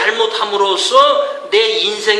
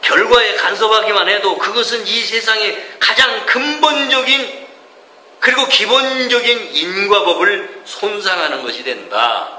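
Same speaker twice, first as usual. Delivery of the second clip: reading scripture aloud. Shown as a demonstration. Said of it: "내가 다시 읽어드릴게요".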